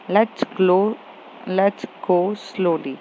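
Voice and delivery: slow, drawn out. Acted. Calm partner asks to slow down.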